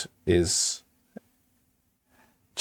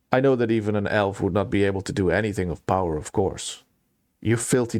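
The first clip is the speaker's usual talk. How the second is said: hardened. Acted. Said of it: "His face hardens".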